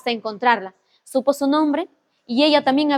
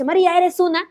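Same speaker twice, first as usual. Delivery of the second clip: retold shout; 5 semitones higher than usual. Storyteller imitates the lover yelling at María, mild mock shout. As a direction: imitate an outburst with raised pitch. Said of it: "lo grita tres veces".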